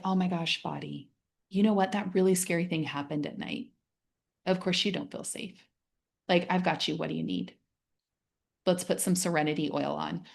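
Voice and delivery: soft, gentle words to your own body; calm yourself down like a friend would; soothing self-talk. Retold or imitated. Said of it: "Instead of just being like".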